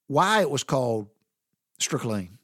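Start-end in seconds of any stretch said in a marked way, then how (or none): 1.8-2.4 "strychnine" said as one quick word, strick-leen; run together as one word. Shown as a demonstration. Son repeats Daddy's word for fatback, run together. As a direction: run "strychnine" together, its streak of lean lost. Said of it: "Daddy always just said it fast".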